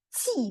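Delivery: Qi with a puff of air, slow falling tone; airy Qi. Shown as a demonstration. Teacher showing learners the airy Q, aspirated Qi. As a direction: let air rush out on Qi, not a hard k. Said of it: "dia itu juga ada anginnya".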